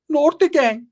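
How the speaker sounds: high, loud proud call; gang shout-out. Retold or imitated. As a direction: shout the gang name like a battle cry.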